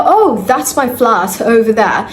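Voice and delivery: lightly put-on British accent; a hint of British pronunciation. Shown as a demonstration. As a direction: say it with a touch of British English. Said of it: "So that's your British accent".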